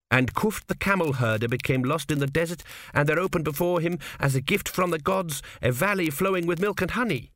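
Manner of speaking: a touch of hollow recitation; lightly hollow, reciting scripture. A narrator's reading. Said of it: "quoted Tepik in a hollow voice".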